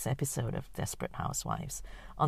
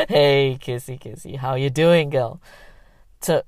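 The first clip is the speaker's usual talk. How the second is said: brash loud man; 2 semitones lower, 8 dB louder than usual. Acted. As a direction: boom like a brash tourist. Brash client voiced.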